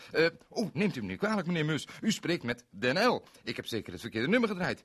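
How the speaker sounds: apologetic owl on the phone; hint of a fussy owl; Mr Owl's voice. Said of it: "het was meneer de Uil".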